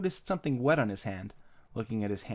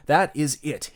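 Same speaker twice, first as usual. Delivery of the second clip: firm, louder exasperated line; fed-up declaration; 3 semitones higher, 5 dB louder, slower than usual. Acted. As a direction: put your foot down. Billy fed up after nightmare.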